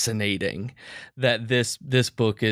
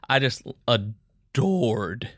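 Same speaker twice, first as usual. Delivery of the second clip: voice cracking; much slower than usual. Real, not acted. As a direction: voice breaking with emotion. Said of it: "Man, my voice cracked".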